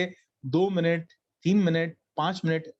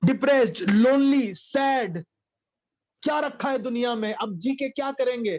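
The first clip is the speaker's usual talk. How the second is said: mock self-pity; 5 semitones higher, 3 dB louder than usual.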